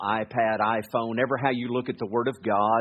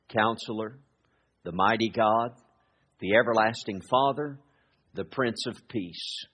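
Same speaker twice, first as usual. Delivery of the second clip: scripture reading. Acted. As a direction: read the verses with reverence. Reads scripture aloud.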